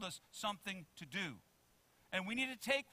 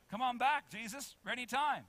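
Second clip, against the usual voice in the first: higher, louder mock pleading; impatient plea; 6 semitones higher, 6 dB louder than usual. Preacher voices waiting believers calling Jesus back, impatient plea. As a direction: call out as if tired of waiting.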